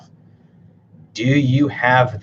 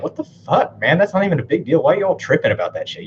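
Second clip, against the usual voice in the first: mock dismissive; 4 semitones higher than usual. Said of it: "you're just like".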